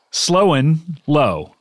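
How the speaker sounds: slowly spelling out the name; drawn out, word by word. Shown as a demonstration. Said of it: "he is called Slow and Low".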